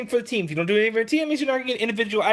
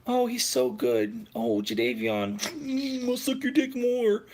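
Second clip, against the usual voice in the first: mocking fawning fans; 6 dB quieter, slower than usual. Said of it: "it's all because of the same shit you are".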